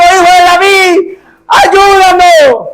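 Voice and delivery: grito alto y lento pidiendo ayuda; gritos de auxilio. Acted. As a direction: clama a voz en cuello. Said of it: "fueron a parar los ciegos pegando gritos". (gritos de auxilio de los ciegos)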